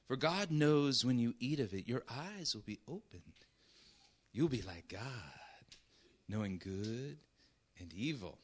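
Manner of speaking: the serpent sweet-talks the woman with syrupy lies. Acted. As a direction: coax her like a sweet-talking snake. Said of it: "You can almost hear him talking like this".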